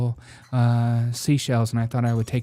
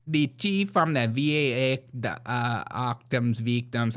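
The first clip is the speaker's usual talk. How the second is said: put-on a slower, light stab at a Caribbean accent; imitating Caribbean accent. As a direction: copy the Caribbean accent playfully. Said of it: "that is a Caribbean accent".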